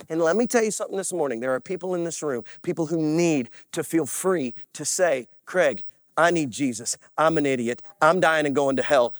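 hushed, low, quick-running confession; earnest altar appeal. Real, not acted. Preacher urging people to confess their need, low and earnest.

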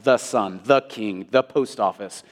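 "the" given full emphatic weight; emphatic article. Shown as a demonstration. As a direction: lean on "the" before each noun. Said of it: "So it's emphatic".

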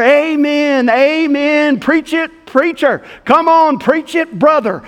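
lightly voiced old church lady urging him on; old lady calling out amens. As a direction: chime in like an eager old lady in the pew.

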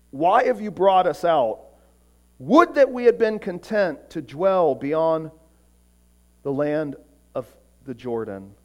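a touch of desperation, fading at the end; desperate prayer. Acted. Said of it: "This is a prayer of desperation".

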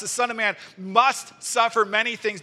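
verse reading with strong stress on "must"; emphatic MUST. Shown as a demonstration. Preacher quoting Jesus' emphatic prediction, weight on "must". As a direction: punch "must", then carry the verse on. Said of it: "So much is contained in that word must".

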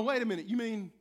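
mock the congregation snatching free money; eager grabbing. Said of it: "We go".

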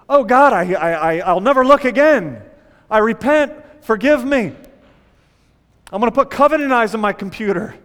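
a caught man begging forgiveness in a rush; mock panicked prayer.

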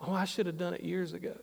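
low, quick, softened admission; mock embarrassment. Imitating older people regretting a late decision, mildly embarrassed. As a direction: toss it off quietly, sheepishly. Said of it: "because they're embarrassed now".

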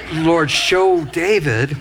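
drawn-out, measured plea in prayer; retold prayer. Pastor asking God to help David, slow retold prayer. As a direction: pray it slowly, word by word. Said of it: "but I was praying".

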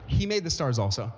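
offhand, tossed-in remark; understated afterthought after a grand list. Acted. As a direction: add it lightly, as if in passing. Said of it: "Almost as if it was an afterthought".

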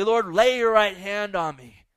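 loud, pleading model prayer. Shown as a demonstration. Preacher modelling a prayer for the crowd, in a loud plea. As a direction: cry it out as a plea.

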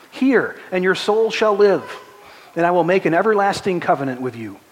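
high, loud, ringing proclamation; preaching scripture. Acted. Pastor calling the congregation to the waters, loud preaching. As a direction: call the congregation to come. Pastor reads Isaiah exhortation.

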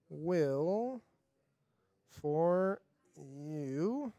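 soft, slow scripture reading, word by word; slow verse reading. Acted. Youth leader reading a Bible verse to teens, soft and slow. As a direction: let each word of the verse sit in the quiet. Reads verse slowly to group.

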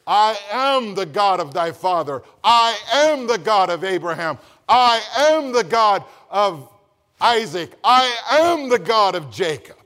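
preacher declaring the text; proclaiming scripture. Acted. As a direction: thunder out each I am.

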